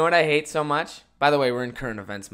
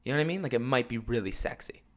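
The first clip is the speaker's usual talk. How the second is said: groggy early-morning voice; raspy just-woke-up voice; 6 dB quieter than usual. Real, not acted. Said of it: "my morning voice".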